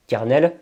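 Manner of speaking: "carnel" read as if French, ker-nel. Shown as a demonstration. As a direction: sound out "carnel" with French vowels and a full final -nel. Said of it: "les mots qu'on lira carnel". (« carnel » lu à la française)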